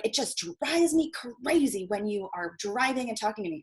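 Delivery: slow, drawn-out exasperated complaint; imitated anger. Ex-boyfriend scolding her for driving while talking, mock exasperation. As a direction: act out a fed-up boyfriend, stretching the words. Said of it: "gets really angry".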